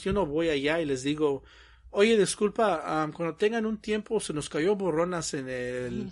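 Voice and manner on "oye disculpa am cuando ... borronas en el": mock polite request.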